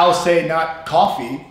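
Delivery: 'coffee' with a long, drawn-out New York vowel; East Coast coffee. Shown as a demonstration. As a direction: stretch the vowel in 'coffee' slowly, Bronx style. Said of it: "I don't say coffee normally the way I say coffee".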